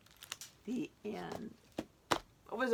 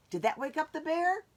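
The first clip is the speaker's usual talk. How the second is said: gasp; 8 semitones higher, 3 dB louder, faster than usual. Acted. Suspense for children.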